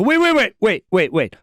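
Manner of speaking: hammed-up panic calling after a rock musician; frantic call. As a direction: stop him before he leaves. Frantically calls him back.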